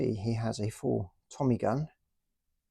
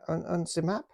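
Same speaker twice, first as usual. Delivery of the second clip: German officer voice; 8 semitones higher than usual. Pretend. German toy soldier answers.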